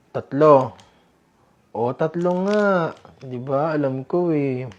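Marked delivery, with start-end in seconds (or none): 0.1-0.7 counting out loud. Acted. Counting the food aloud. 1.7-2.9 slow confirmation. Acted. Confirming the count slowly.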